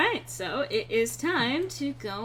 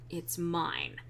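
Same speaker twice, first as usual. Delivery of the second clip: mimicking Sten; 5 semitones lower, 6 dB quieter than usual. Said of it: "I can't sound deep and growly".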